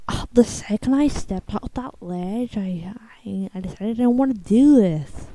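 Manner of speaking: hushed retold confession in a whisper. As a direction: whisper it like a close call. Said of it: "and they were like".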